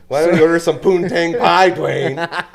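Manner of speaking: loud taunting wrestler promo; Rock impression. Mock Rock catchphrase taunt.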